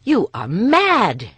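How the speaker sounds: very slow, loud, firm verdict; with conviction. Acted. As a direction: state it as final truth. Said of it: "she said with conviction".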